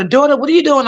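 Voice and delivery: put-on high, gentle old lady calling her carer; lightly voiced sweet old lady; elderly lady's voice. Old patient calling to her carer, high sweet voice.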